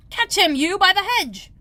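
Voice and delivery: high, loud order; shouting. A narrator's reading. Rabbit shouting to catch Bill, high and loud. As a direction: shout across the yard. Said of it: "the rabbit's voice alone".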